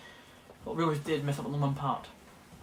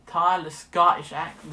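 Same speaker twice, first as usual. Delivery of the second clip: Scottish attempt coming out American; American-sounding fake Scottish, slow; botched Scottish accent; 6 dB louder, slower than usual. Shown as a demonstration. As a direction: try Scottish but slip into American. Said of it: "that's American".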